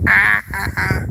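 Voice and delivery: short strained "ah" sounds; mock groan. Vlogger imitating herself stepping outside after a week, mock groaning. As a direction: groan in short bursts, mimicking shock at daylight. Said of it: "you step outside, I'm like".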